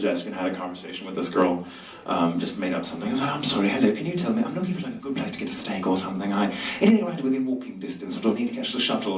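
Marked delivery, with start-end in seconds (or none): 3.3-9.2 lightly put-on non-American accent, polite; a hint of Sebastian's accent. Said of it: "doing Sebastian's voice".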